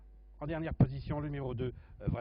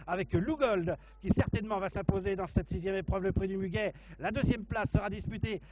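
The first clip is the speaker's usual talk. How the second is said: excited finish call; 3 semitones higher, 4 dB louder than usual. Real, not acted. Race finish, commentator builds up.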